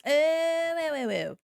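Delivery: long high loud "ohhh", then falling; dawning realisation. Real, not acted. Streamer finally understanding the pretzels, loud drawn-out realisation. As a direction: draw out a high "oh", tumbling into short ones.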